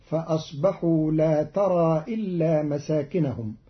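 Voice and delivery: ترى بتاء مفتوحة ومساكنهم بالنصب; اقرأ لا ترى بالتاء; بالتاء المفتوحة. Shown as a demonstration. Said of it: "بفتح التاء بدل الياء". (قراءة قالون لا ترى بالتاء)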